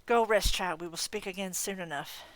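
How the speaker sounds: scornful fae aunt scolding a fool; a hint of a cold, proud godmother; haughty faerie godmother. Leah the faerie godmother speaks.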